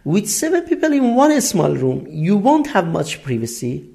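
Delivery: very slow, careful English read for learners; slow example reading. Shown as a demonstration. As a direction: read it out word by word for the class. Teacher reads English example sentence.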